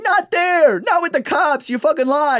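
very high, exasperated dad rant; hammed-up high-pitched scolding; Jerry Seinfeld. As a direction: squawk it like an outraged sitcom comic. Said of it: "I just went full Jerry".

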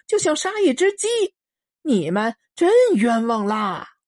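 高声冷嘲热讽; 轻蔑地大声奚落; 嘲讽的恶霸. Acted. 丁八子冷笑回应囚徒. (嘲讽的司令腔)

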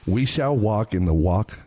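slow, deliberate recitation; slow poem reading. Acted. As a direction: recite it slowly, word by word. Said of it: "spoken word".

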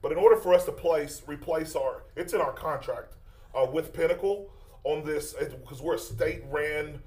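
flustered fake roofer on the phone; prank caller voice. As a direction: bluff through the excuse.

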